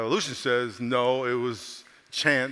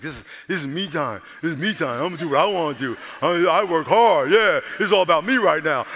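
self-indulgent; 4 dB louder than usual. Retold or imitated. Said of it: "I'm like".

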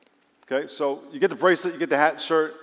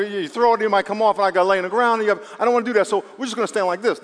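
lightly acted grumbling glove, a bit high and raised; reluctant talking glove; 3 semitones higher, 3 dB louder, much faster than usual. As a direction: complain playfully as the unwilling glove. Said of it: "the glove says".

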